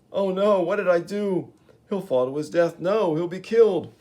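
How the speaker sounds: panicked realisation; horrified panic. Acted. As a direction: gasp it out in horror at what he's done. Gibbon horrified by the fall.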